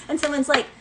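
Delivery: ordinary delivery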